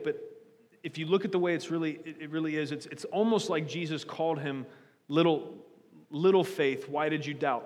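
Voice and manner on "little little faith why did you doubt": tender, fond rebuke; affectionate scolding as to a little son; pet name. Retold or imitated. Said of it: "almost like a pet name".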